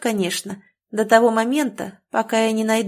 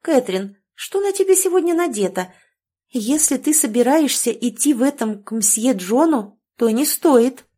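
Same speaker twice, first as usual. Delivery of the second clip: patronizing tone; 4 semitones higher than usual. Acted. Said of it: "покровительственным тоном заговорила девушка".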